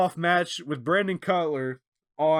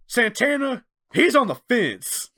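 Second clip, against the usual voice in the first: mock quote; 7 semitones higher, 4 dB louder than usual. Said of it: "that was so funny".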